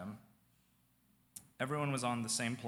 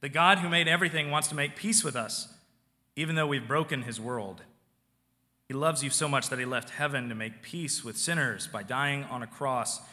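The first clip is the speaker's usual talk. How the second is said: retold loud speech; 4 dB louder than usual. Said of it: "he began to say loudly".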